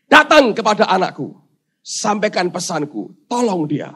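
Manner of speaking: firm command, lightly voiced; God giving orders. God sending the angel to help, mildly commanding. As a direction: issue the order with authority, easing off. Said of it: "Tuhan beri perintah".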